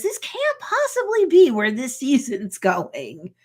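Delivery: emphatic mock disbelief; incredulous aside. Jen breaking the fourth wall, incredulous. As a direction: imitate a protest straight to the viewer. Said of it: "does a fourth wall break".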